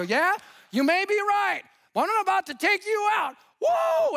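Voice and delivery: high, heated mock fighting shout; acted-out threat. Husband threatening the associate pastor, acted-out fury. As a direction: rise to a wild battle cry, hammed-up.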